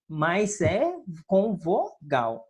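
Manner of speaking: ordinary talk, nothing marked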